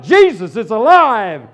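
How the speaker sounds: high, loud, slow proclaiming shout; joyful shout. Retold or imitated. New believer shouting up from his knees, loud and joyous. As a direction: shout the news with joy. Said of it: "I shouted".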